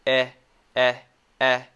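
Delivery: "Eh" relaxed, mouth a little wider; short E sound. Shown as a demonstration. Teacher showing the wider mouth, isolated "Eh". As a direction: repeat a separate, open "Eh". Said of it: "The mouth is a little bit wider".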